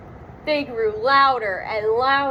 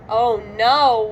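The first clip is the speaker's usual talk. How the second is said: wailing; 5 dB louder than usual. Acted. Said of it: "wailed Shaggy".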